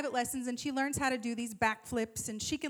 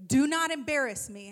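louder, emphatic mom order; stern warning; 6 dB louder than usual. Retold or imitated. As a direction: warn her, hitting every word. Mom warning daughter, retold.

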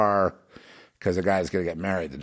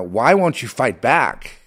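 frustrated; 3 semitones higher, 5 dB louder, slower than usual. Retold or imitated. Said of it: "you start getting really angry".

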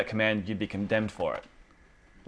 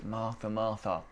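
softer gentle Jesus, understated; 5 dB quieter than usual. Retold or imitated. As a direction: ease her down kindly, no rebuke. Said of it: "He just kind of gently just goes".

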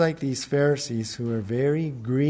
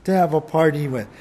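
1 accusing whine; 6 semitones higher than usual. Acted. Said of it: "Accusing the father wrong".

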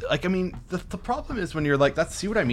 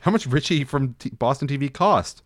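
put-on Boston accent. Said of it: "read it in a Boston accent".

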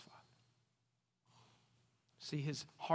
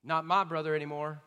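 put-on mad older brother; 3 dB louder than usual. Older son disowning his brother to father, bitter and loud. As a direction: spit out this son of yours. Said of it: "he's mad at his brother".

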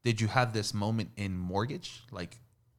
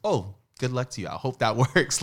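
mock good wishes; 4 semitones higher, 8 dB louder, faster than usual. Retold reply to the associate.

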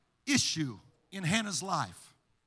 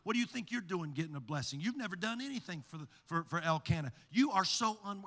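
lower, much softer sneering whisper-like taunts; taunting adversary voice; 3 semitones lower, 5 dB quieter than usual. Acted. Peninnah taunting Hannah behind her, low and soft. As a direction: hiss doubts at her from behind. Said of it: "there's this voice".

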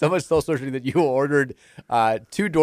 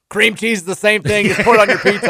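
higher, louder mock mom voice; imitated mom; 7 semitones higher, 4 dB louder than usual. Host imitating his mom defending a bad substitute, mock insistence. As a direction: put on a mother's voice, pitched up and insistent. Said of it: "she'd be like".

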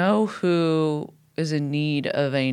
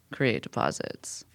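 whisper; 6 semitones lower, 9 dB quieter, slower than usual. Acted. Cohost teasing a future episode, hushed whisper.

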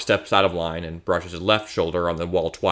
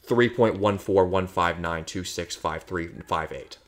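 slow recitation; 4 dB quieter than usual. Shown as a demonstration.

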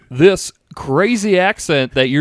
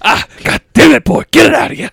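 put-on high, louder Southern old-gent voice; Colonel Sanders accent; 10 semitones higher, 5 dB louder, faster than usual. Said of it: "You Colonel Sanders accent now".

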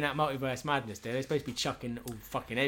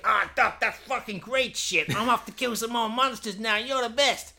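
much higher, louder grateful soldier; hammed-up patient; 9 semitones higher, 4 dB louder than usual. A patched-up fighter thanking Doc Smith, high and overexcited.

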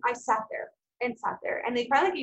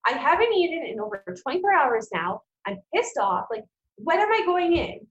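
louder, higher, fed-up demand; retold yell; 5 semitones higher, 4 dB louder than usual. Hungry patient yelling at a young nurse about her surgery. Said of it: "I kind of yelled at one of these young nurses".

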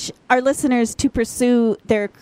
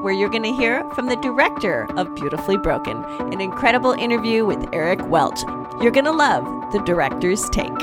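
polished on-air promo read over music; smooth, scripted presenter sign-off; radio host outro. Acted. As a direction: tease what's coming after the break. Radio host's outro and tease.

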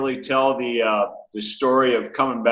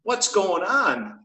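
slow, high puzzled question; baffled; 8 semitones higher, much slower than usual. Retold or imitated. Asking why the box of ashes is so heavy, slow high bafflement. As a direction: draw it out high, truly puzzled.

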